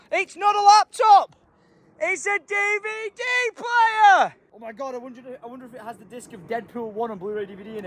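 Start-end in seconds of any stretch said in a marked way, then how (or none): 0.1-4.3 high, slow and amazed; high slowed astonished reveal; excited correction. Real, not acted. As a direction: realise what it really is with glee.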